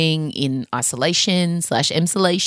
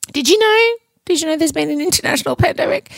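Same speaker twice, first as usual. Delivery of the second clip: mock surprise; 11 semitones higher than usual. Sarcastic mock news after career talk.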